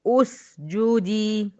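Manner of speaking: أسجدي begun with u, usjudi, slowly; starting with damma. Shown as a demonstration. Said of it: "طيب هبدأ بيها". (ابتداء بهمزة مضمومة)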